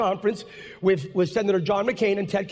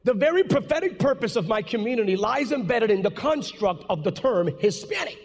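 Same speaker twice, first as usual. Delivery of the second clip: slowed down. Shown as a demonstration. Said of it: "slow it down a bit".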